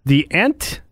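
high goofy creature voice; manatee voice. Acted. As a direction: play a dopey sea cow. Voicing manatees on the beach.

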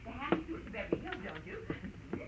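breathy, hushed, confiding; hushed phone gossip. Acted. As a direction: lean in and gossip softly into the receiver.

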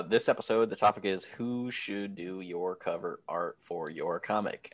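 flat robotic monotone. Real, not acted. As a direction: speak like a stiff robot. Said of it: "I sounded like a robot".

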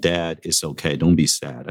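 retold gentle consolation; consoling. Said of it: "he pat my back and said".

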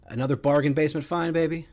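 mock hype. Mocking the club's cheap signing.

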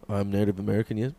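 low mock Indian-chief voice; stereotypical chief voice. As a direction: drop it low in a caricatured chief voice. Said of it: "Oh, racist voice".

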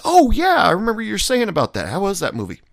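bright put-on eagerness, racing through; mock chipper greeting. Speaker greeting the friend about his movie, put-on chipper.

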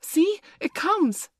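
high, drawn-out loud cry; excited cry. A narrator's reading. Curly pointing to Windy in the heavens, excited cry. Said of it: "cried Curly".

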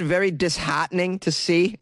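mimicked Massachusetts accent; Boston accent. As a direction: imitate a Bostonian's broad "ah" in disheartening. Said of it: "words that have an ah sound".

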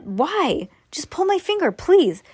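very high, loud whiny plea; whiny little brother. A narrator's reading. Little brother begging big brother, high and whiny. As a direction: beg like a pestering kid.

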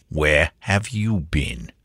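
thick, slow growling butler voice; suspicious growl. A narrator's reading. Butler demands where the servant has been, suspicious slow growl. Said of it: "demanded the butler suspiciously".

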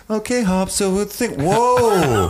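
high-pitched cheery entrance turning to shock; hammed-up high goofy official; imagined lab boss. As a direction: breeze in high, then a startled "whoa". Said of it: "I picture him coming in like".

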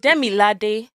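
Demilade in slow, separated syllables; slow Demilade ending on a rise; tones demonstrated. Shown as a demonstration. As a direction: spell out the melody of Demilade. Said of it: "That's not a tone".

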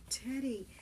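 high, loud call of the name; boy shouting at his brother. Acted. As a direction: yell to snap him still. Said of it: "I shouted".

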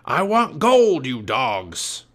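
slow, loud pirate captain voice; angry pirate demand. Acted. Captain Bones berating his crew, angry pirate demand.

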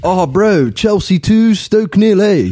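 put-on Kiwi accent. Guest giving his match prediction, mock Kiwi accent. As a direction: give the score as a mock Kiwi. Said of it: "can we have the Kiwi version".

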